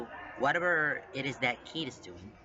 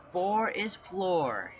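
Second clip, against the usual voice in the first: grinning character line; 6 semitones higher, 4 dB louder, much slower than usual. A narrator's reading. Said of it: "he says, grin fixed in place".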